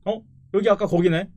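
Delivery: high, loud disbelieving question; shocked to be back here; surprised. Real, not acted. Realizes he's back at the same spot.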